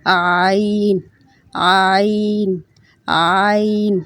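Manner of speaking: آئین squeezed from the middle of the throat. Shown as a demonstration. Teacher showing the throat sound of آئین. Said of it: "گلے کے بالکل وسط سے".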